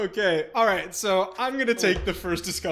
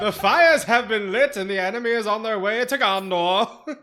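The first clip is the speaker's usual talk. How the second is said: mock epic narrator; 4 semitones higher, 8 dB louder than usual. Mock epic Tolkien proclamation.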